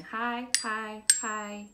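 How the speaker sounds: each word held up on the high note; high sound demo. Shown as a demonstration. Teacher matches the xylophone's high sound, chanting high. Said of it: "So a high sound is that".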